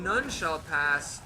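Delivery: slow, drawn-out knightly proclamation; mock stern guardian voice; imitating the knight. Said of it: "Why is it that he's saying".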